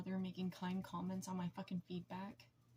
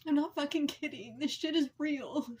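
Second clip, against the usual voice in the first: loud, forceful, a bit higher; angry outburst; 4 semitones higher, 8 dB louder than usual. Real, not acted. Ranting about therapists who never call back, in a loud angry outburst. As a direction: hit it hard, real anger breaking through.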